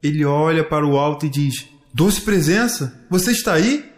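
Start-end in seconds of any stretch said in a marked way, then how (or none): 1.9-3.9 searching question. Acted. Child calls up to sweet presence.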